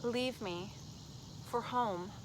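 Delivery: slow, deliberate recital; poetry reading. Acted. Poet reads The Men I Love, slow deliberate recital. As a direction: let each short phrase stand alone, slowly.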